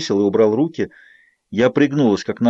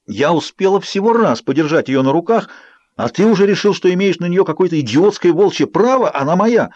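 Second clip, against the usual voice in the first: angry; 6 semitones higher, 3 dB louder than usual. Acted. Bella rages at Jacob.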